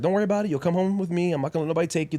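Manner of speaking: lightly voiced motherly comfort; retold reassurance. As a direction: imitate mom brushing the worry away. Mom reassures him, retold.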